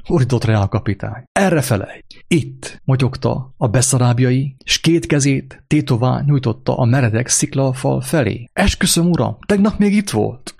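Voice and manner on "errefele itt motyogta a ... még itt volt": pleading interpreter. Acted. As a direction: beg the officer in a panic. Interpreter swears to captain.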